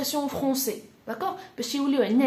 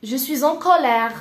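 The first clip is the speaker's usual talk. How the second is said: loud, emphatic teaching delivery; firm acted anger; 6 dB louder than usual. Shown as a demonstration. French teacher modelling the anger phrase, firmly and loudly. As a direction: state it forcefully, with measured anger.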